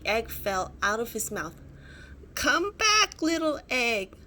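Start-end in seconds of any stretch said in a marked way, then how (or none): 2.3-4.1 high, louder pleading call; crying out. Acted. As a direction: call after the falling egg. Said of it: "Sid cried".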